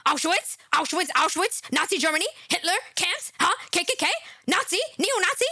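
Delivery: stammering mock of the guest. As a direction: rattle the buzzwords off in mockery. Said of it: "I can't even talk".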